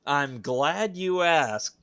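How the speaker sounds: high, drawn-out knowing tease; slow smarmy tease. Acted. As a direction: stretch it out like a showman. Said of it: "it makes me think you're going to".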